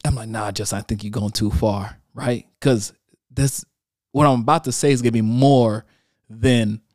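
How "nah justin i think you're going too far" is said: quiet self-talk. Retold or imitated. Talking himself out of posting.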